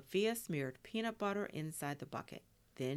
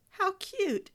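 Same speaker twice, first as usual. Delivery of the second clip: high, loud delighted squeal of words; big, high-pitched burst of delight; 9 dB louder than usual. A narrator's reading. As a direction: gush over it, pitched way up. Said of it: "Sophia laughed".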